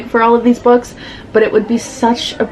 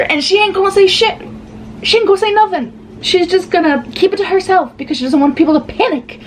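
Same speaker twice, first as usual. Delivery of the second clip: exasperated high rant; 11 semitones higher than usual. Real, not acted. Ranting at character's choice.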